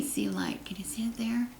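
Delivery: hushed question to the viewers; soft whisper. Real, not acted. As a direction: whisper it gently.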